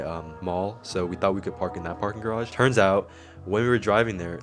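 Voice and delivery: talking with a retainer in; wearing a retainer. Real, not acted. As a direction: speak around a retainer. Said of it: "I have my retainer in".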